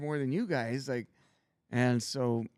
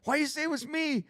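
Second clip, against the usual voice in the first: indignant disbelief; 13 semitones higher than usual. Retold or imitated. Accused by pledge brothers.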